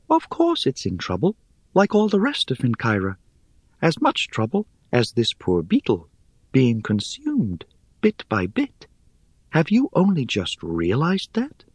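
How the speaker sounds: high, airy, scornful little voice; airy spider voice. Acted. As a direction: chide them, light and dry.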